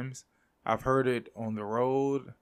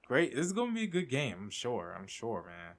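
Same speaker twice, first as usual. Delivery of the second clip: sarcastic; faster than usual. Real, not acted. Sarcastic about the lineup.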